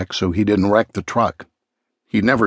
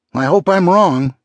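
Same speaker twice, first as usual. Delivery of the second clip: much higher, urgent repeat; insistent worry; 8 semitones higher, 4 dB louder than usual. Acted. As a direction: repeat it with rising urgency, pitched high. Same worry repeated with more urgency.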